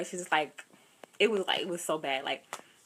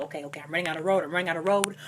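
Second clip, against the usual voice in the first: hurried, repeated words, lightly panicked; mild retold panic; 2 semitones lower, faster than usual. New driver running out of road, mildly panicked. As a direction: rush it in understated panic. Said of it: "panic, like".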